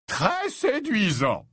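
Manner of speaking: high, slow, coaxing assurance; gently soothing. Acted. Slughorn humouring lovesick Ron, slow and gently soothing. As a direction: draw it out in a soothing professor voice. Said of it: "affirma Slughorn avec douceur".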